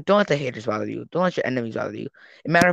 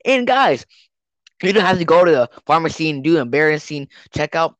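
cheesy ad read. Pretend. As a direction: hype it like a late-night commercial. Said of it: "another ad".

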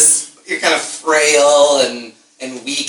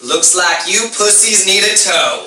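higher-pitched hillbilly voice; hillbilly swamp man; 5 semitones higher than usual. Acted. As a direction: repeat the hillbilly rider's taunt. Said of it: "It's a hillbilly tow truck".

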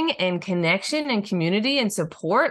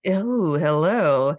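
sultry narrator; much slower than usual. Pretend. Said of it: "in your sexy voice".

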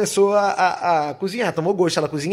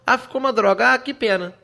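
breezy, higher mock-casual voice; lighthearted imitation, higher pitch; carefree mock; 7 semitones higher than usual. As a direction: play someone shrugging off a bad dye. Mocking carefree hair-dye attitude.

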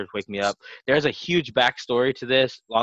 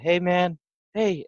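cop rousing someone; 9 semitones higher, slower than usual. Retold or imitated. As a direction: imitate an officer trying to wake a drunk. Cops rousing passed-out man.

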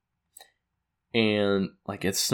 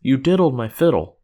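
accusing; 4 semitones higher, 6 dB louder than usual. Retold or imitated. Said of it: "he says".

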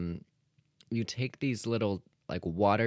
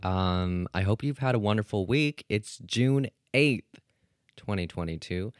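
morning news show intro. Acted. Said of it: "why am I starting this like it's, like, a morning news show?".

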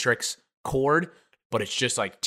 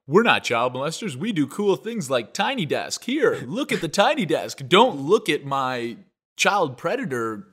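mock NPR host; 3 semitones higher, 5 dB louder, slower than usual. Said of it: "They're like".

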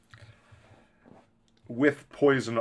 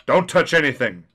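urgent hiss, louder than written; urgent whisper; 5 semitones higher, 10 dB louder than usual. Acted. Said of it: "he hissed urgently".

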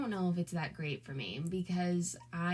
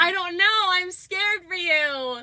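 laughing; 12 semitones higher, 12 dB louder than usual. Real, not acted. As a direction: laugh through fake concern. Teasing worry while laughing.

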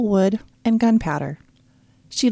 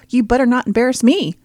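louder, higher, mocking parrot; mocking mimicry; 5 semitones higher, 6 dB louder than usual. Little brother mocking his sister's warning back at her.

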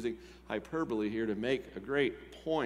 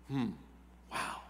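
usual speaking voice

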